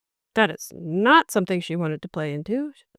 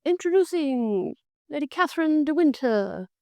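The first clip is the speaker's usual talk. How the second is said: a hint of a grand herald; playful mock formal introduction; mock announcement; 6 semitones higher than usual. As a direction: lightly announce her like a servant at a ball. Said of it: "has one of the servants do a fake little".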